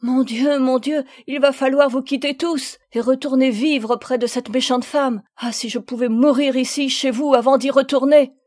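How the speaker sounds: a touch of sobbing desperation; girl dreading her stepmother, pleading through tears; distressed sobbing plea. Acted. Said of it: "suffoquée par ses sanglots".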